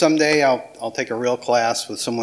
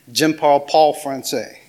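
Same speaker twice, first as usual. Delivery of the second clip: southern accent. Shown as a demonstration. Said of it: "I still said that with a southern accent".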